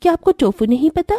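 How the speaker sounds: sister-in-law mocking the new bride, astonished; mock astonishment. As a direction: stretch the hey in disbelief. Shocked sister-in-law mocks ignorance.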